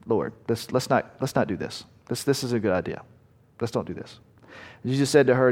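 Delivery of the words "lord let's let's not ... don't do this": a quiet hesitant plea, softer, trailing away; pleading Martha, softer. Acted. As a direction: talk Jesus out of it in a hushed worried voice. Martha voiced pleading, imagined.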